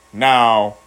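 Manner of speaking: slow, drawn-out word endings; imitating a man who drags his words; talk-show guy impression. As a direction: slur and stretch the last word. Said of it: "He would talk like this".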